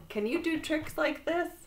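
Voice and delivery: high-pitched showing-off call; boastful cry. A narrator's reading. Toad on the high wire to Frog, crying out. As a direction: call out, proud of the trick. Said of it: "cried Toad".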